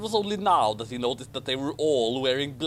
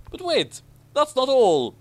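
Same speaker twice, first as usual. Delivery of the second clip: much higher and louder, salesman-like; excited; 10 semitones higher, 6 dB louder than usual. Acted. Ron pitching Slytherin to Harry, excited infomercial voice. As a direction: hype it like an infomercial. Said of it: "Ronald continued excitedly".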